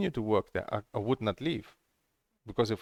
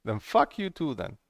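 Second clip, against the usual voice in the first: incredulous retort; 5 semitones higher, slower than usual. Retold or imitated. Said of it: "This was like".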